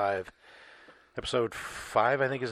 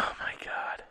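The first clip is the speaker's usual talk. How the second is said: whispered; 5 dB quieter than usual. Real, not acted. Whispered reaction to fart compilation.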